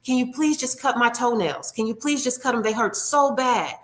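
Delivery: lightly voiced hurting lady near tears; teary plea. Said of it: "she's practically in tears".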